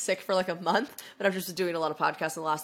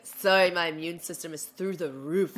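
smug boast; slower than usual. Retold or imitated. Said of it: "he's such a little, like, shit".

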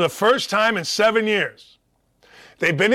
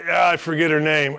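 normal talking voice

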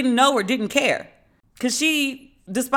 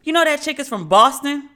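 higher and louder, can't-believe-it reveal; incredulous outburst; 6 semitones higher, 5 dB louder than usual. Real, not acted. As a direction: burst out in disbelief, high and loud. Outraged reveal to viewers.

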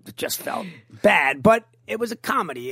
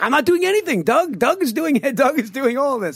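high-pitched retold self-defense; mock protest; 8 semitones higher than usual. Defending self to upset co-star, mock protest. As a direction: protest your innocence, high and playful.

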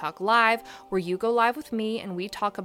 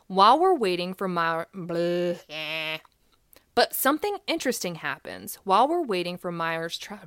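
out of breath. Real, not acted. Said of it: "I'm out of breath".

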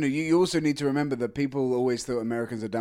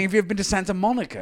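mock question; 6 semitones higher, faster than usual. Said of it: "it's like saying".

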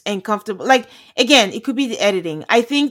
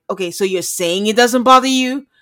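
pointed question, building louder; forceful challenge; 5 dB louder than usual. Retold or imitated. Wife confronting husband about whether it bothers him, forcefully. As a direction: imitate a forceful, disbelieving challenge. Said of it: "she said it with such force".

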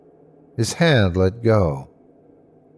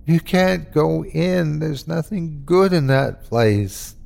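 mildly whimpered, higher-pitched plea; pained whimpering; 5 semitones higher than usual. Acted. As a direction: plead through the pain in your hand. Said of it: "whimpering with the pain in my hand".

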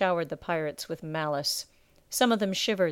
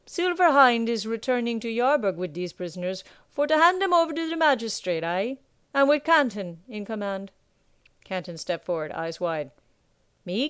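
louder, higher rough sea captain, gloating; gruff pirate captain; 4 semitones higher, 3 dB louder than usual. Acted. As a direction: lord it over the captured pirates. Captain addresses the crew.

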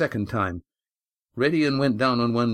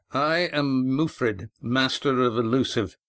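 sardonic master; 2 semitones higher than usual. Acted. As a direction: announce your name like a proud pirate. Mufrid introduces himself.

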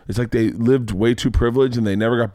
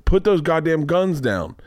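higher, exasperated insistence; pitched-up mock-serious warning; retold stern protest; 5 semitones higher than usual. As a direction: insist you mean it, acted out. Retold warning to laughing kids.

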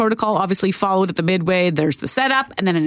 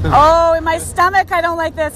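scared; 6 semitones higher, 4 dB louder than usual. Real, not acted. Scared on a swinging ride.

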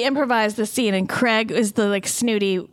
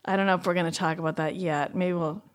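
hushed; 6 semitones lower, 6 dB quieter than usual. Real, not acted. Hesitant about dire dreams.

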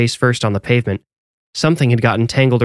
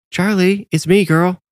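calling a dog, higher pitch; 8 semitones higher than usual. A narrator's reading. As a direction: call to the dog from afar. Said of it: "Max called".

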